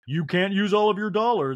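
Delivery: mock scolding impression; Garcelle. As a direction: pitch it up, chiding. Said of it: "And Garcelle's like".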